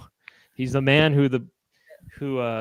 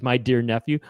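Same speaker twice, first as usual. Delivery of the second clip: sarcastic; 2 semitones lower than usual. Retold or imitated. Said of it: "the sarcasm in his voice".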